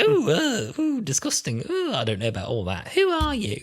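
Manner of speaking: high squeaky disgust; disgusted Doctor. Retold or imitated. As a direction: squeal it out, scandalized. Doctor flustered by River's flirting.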